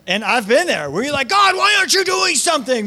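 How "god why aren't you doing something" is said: much higher, louder anguished cry; emotional plea. Retold or imitated. Believer pleading with God, high loud anguished cry. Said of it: "We get pretty emotional sometimes".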